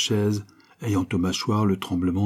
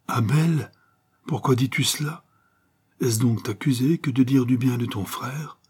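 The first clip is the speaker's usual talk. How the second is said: pleading mother; 5 semitones higher than usual. Acted. Mother pleading with angry son.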